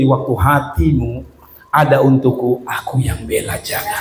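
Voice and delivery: low, soft and slowed; gentle voice of God. Acted. God reassuring the preacher, low and soft. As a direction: speak it softly as a tender promise. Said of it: "Tuhan mau bilang gini".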